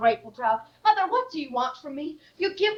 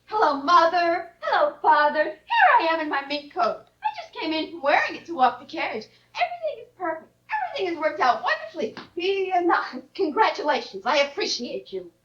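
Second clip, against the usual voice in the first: mock cheerful daughter. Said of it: "You expect me to pick".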